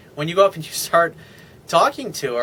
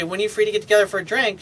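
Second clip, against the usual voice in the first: brisk ask; 6 semitones higher, much faster than usual. Shown as a demonstration. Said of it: "You say".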